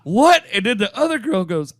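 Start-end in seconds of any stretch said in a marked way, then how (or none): 0.0-0.4 high, loud mock-incredulous yelp; hammed-up astonished question, pitched way up; shocked disbelief. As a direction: blurt it out, utterly thrown. Comic's shocked reply, retold.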